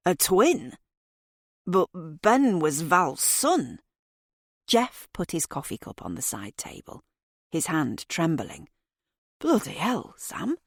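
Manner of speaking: reeling from the news, voice climbing; a hint of a stunned husband; shocked father. A narrator's reading.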